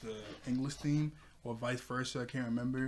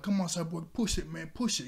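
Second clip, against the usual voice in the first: higher-pitched mock cheer, rising at the end; 5 semitones higher, 3 dB louder than usual. Titans urging Cyborg at the weights, imitated cheering. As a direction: egg a teammate on in quick bursts. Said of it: "they start to cheer on Cyborg".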